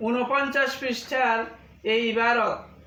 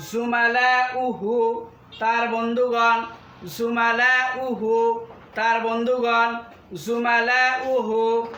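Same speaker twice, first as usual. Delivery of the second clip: slow, measured word drill for pupils; teacher reciting Arabic words and meanings; vocabulary drill; slower than usual. Shown as a demonstration. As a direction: say each word slowly for students to repeat.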